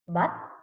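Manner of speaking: "butterfly" in three isolated beats; read by syllables. Shown as a demonstration. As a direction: pause after each syllable of "butterfly". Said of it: "read by syllables".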